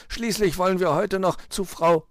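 high fox voice, cut short; explaining fox. A narrator's reading.

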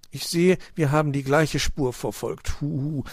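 high owl voice ending in a hoot; owl uncle. A narrator's reading. Uncle owl joining the others, hooting. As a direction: speak as the observant storybook owl. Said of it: "sagte Onkel Uhu".

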